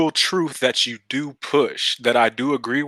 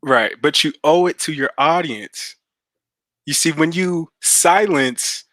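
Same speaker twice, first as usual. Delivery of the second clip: measured delivery, phrase by phrase; slow, deliberate. Real, not acted. Caller explains to the host so he comprehends, slowly and deliberately. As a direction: spell it out slowly, with long pauses between phrases. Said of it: "but I'ma say it slowly".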